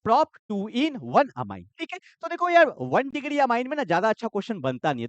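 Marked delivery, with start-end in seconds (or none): 0.1-1.6 slow answer readout. Shown as a demonstration. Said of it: "तो क्या बन गया?".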